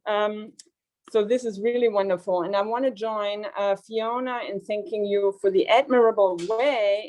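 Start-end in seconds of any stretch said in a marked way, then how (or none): 0.1-2.6 muffled speech through a face mask; talking through a mask, slightly muffled. Real, not acted. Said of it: "I signal by speaking through a mask".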